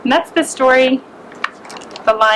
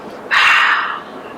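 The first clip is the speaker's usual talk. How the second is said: lion breath. Acted. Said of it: "He breathed upon the mouse".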